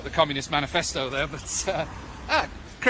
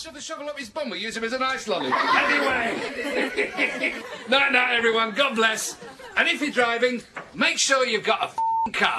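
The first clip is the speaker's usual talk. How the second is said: laughing through speech; 8 semitones higher than usual. Acted. Finishing an after-dinner speech.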